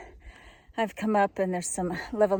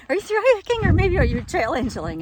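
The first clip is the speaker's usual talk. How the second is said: excited question; 8 semitones higher, 8 dB louder than usual. Retold or imitated. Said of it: "So I said".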